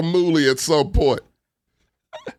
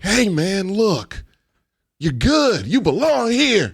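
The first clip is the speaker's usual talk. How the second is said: reassuring; 4 semitones higher, much slower than usual. Retold or imitated. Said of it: "and you were like".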